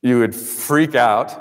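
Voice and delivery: ordinary talk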